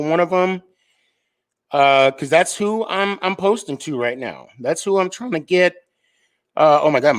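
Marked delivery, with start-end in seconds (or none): 4.6-5.7 a squeak slips out on the last word. Real, not acted. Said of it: "my voice just squeaked".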